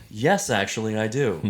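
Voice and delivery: lightly voiced know-it-all scientist; a hint of a precise lecturer answering politely; Neil deGrasse Tyson. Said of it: "my impression of Neil deGrasse Tyson".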